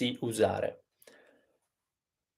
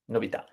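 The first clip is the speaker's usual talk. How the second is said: "novità" as novi-TA, accent on the end; quick novi, then land on TA in "novità"; stress on last syllable; 5 dB quieter, much faster than usual. Shown as a demonstration. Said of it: "is at the end".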